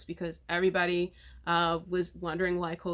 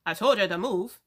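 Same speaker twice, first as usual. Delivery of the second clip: put-on Scottish accent; 4 dB louder than usual. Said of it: "That was me trying to do his, um, accent".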